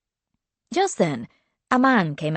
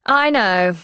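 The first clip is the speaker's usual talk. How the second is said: sighing; 4 semitones higher, 5 dB louder than usual. A narrator's reading. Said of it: "she said with a loud sigh".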